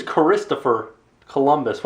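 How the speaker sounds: "Christopher" deliberately misstressed as chris-TOPH-er; wrong-syllable emphasis. Pretend. Questioning an odd name, "Christopher" stressed on the wrong syllable. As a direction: say "Christopher" with the stress shifted onto its second syllable. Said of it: "putting the wrong emphasis on the wrong syllable".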